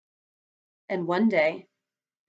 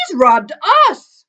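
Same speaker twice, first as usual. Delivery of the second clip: loud, high indignant cry; outraged, raised-pitch yell; shouting; 8 semitones higher, 12 dB louder than usual. A narrator's reading. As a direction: shout the accusation out. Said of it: "shouted Bert".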